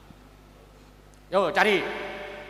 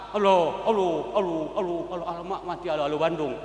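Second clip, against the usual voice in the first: a hint of a careless reciter; clumsy talkin. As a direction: rattle off Allah sloppily. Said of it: "talkinnya tak paham". (tiruan talkin asal-asalan)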